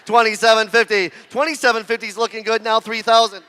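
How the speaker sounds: rapid auctioneer bid calling. Real, not acted. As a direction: roll through the bids like an auctioneer.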